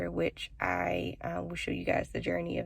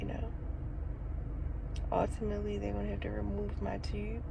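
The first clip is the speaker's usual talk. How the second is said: holding back tears; 3 semitones higher, 4 dB quieter than usual. Real, not acted. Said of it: "so I'm trying not to cry".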